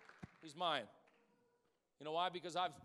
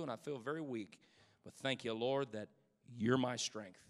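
soft, humble spoken prayer; hushed sincere prayer; quiet prayer; 3 semitones lower than usual. Pretend. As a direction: pray it low and honest. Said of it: "you know what we gotta do".

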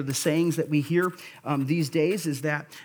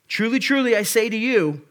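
higher, louder, each truly hammered; loud emphatic proclamation; 5 semitones higher, 4 dB louder than usual. Acted. Preacher voicing Jesus to listeners, loud emphatic proclamation. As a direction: proclaim it so the whole room looks up. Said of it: "that's what he's saying".

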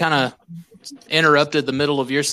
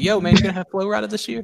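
quick, higher joking voice; mock comment; 6 semitones higher, faster than usual. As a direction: rattle it off playfully.

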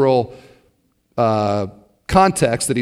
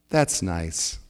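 polite dismissive; 10 semitones lower, 10 dB quieter than usual. Retold or imitated.

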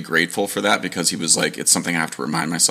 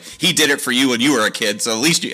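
lightly voiced mom; 6 semitones higher, 3 dB louder than usual. Mom voiced in retold story.

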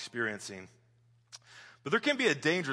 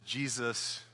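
slow verse; 3 semitones lower, 6 dB quieter, much slower than usual. Shown as a demonstration. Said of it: "If you memorize that".

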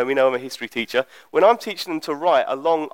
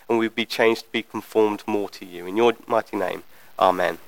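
earnest, slightly lowered praying voice; prayer; 4 semitones lower than usual. Real, not acted. Preacher asking the Lord to open hearts this morning, earnest prayer. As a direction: lead a simple, unhurried prayer.

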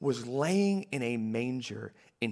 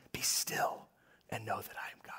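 breathy hushed whisper; 6 semitones lower, 12 dB quieter than usual. Shown as a demonstration. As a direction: whisper it like a gentle devotional poster. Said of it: "we even wanna whisper it".

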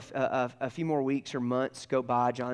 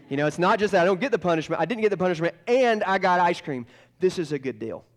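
loud, higher, excited retelling; thrilled boy; 5 semitones higher, 7 dB louder than usual. Retold or imitated. Boy delighted he got ice cream instead of punishment, excited. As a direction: crow about an unexpected bargain.

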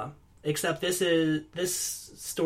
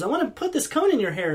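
quick, higher sleazy stranger; shady stranger voice; 7 semitones higher, faster than usual. Retold or imitated. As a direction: hurry it like a creepy peddler. Shady figure voiced, fast, higher.

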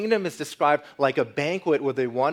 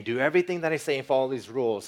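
lightly voiced stern schoolmaster, louder and fast; a hint of a strict, hurried rule-giver; mock stern schoolmaster; 2 semitones higher, 4 dB louder, faster than usual. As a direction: rattle off orders like a stern teacher. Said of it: "He's not just a stern schoolmaster saying".

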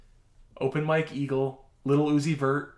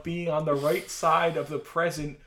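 dictating; 2 semitones higher, 4 dB louder than usual. Shown as a demonstration. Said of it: "I'll tell the punctuation as I read it".

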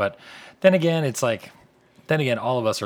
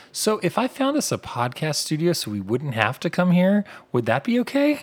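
mimicking friend; 9 semitones higher, 4 dB louder than usual. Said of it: "she said".

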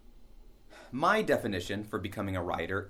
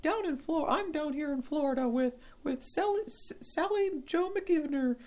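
much higher field reporter voice, bright and chirpy; Jenny the field reporter. Acted. Field reporter Jenny greeting her witness on air in a high chirpy voice. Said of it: "tell us more about that, Jenny".

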